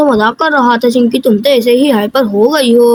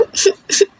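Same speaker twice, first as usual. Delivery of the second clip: sobbing; 4 dB quieter than usual. Acted. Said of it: "Chintu रोने लग जाता है".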